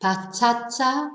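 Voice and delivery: "Patata" stressed on the middle syllable, pa-TA-ta; natural stress. Shown as a demonstration. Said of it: "the natural stress".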